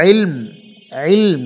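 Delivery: ইলম ending on still lam and mim, no vowel; ইলম with both consonants held vowelless; stopped ilm. Shown as a demonstration. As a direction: close ইলম on a silent m. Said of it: "লামও সাকিন হচ্ছে, মিমও সাকিন হচ্ছে".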